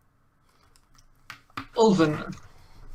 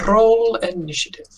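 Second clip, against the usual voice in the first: dramatic announcement; 6 semitones higher, 4 dB louder than usual. Real, not acted. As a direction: announce the fight with relish. Game master announces combat.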